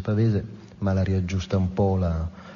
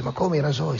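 higher-pitched, mock-astonished query; acted incredulous question; 5 semitones higher than usual. Blacksmith questions Ahab about the razors, incredulous. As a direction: play a taken-aback blacksmith, pitched up.

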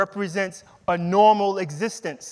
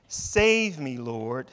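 shouted plea; 5 semitones lower, much slower than usual. Retold or imitated. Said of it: "he shouted".

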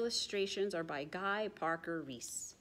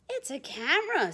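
mother penguin warning; 6 semitones higher, 4 dB louder than usual. Acted. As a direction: warn the little one sharply. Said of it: "says the little penguin".

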